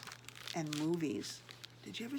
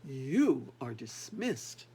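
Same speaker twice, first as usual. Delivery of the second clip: low, slow, louder sentence; cold dismissal; 6 semitones lower, 4 dB louder, much slower than usual. Acted. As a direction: dismiss him with icy rage. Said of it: "pointing a dagger-like finger".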